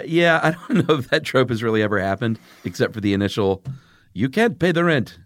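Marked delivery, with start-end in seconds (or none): 4.1-5.2 villain's melodramatic threat, higher; hammy mustache-twirling villain line; silent film melodrama. Acted. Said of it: "You know that old deal?".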